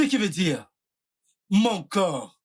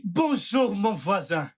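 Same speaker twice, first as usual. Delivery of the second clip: bright practice greeting, pitched up then falling; practised greeting; slower than usual. Pretend. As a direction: rehearse hailing a neighbour. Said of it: "je m'exerce comme un saluer".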